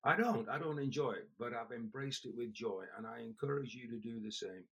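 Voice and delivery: hoarse, cracking voice; a worn, cracking voice. Real, not acted. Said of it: "I'm sorry my voice is cracking".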